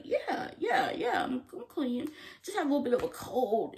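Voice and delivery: high, hurried fake-casual denial; Rue lying. Vlogger voicing Rue lying to Lexi's mom, high and rushed. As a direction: brush it off too quickly.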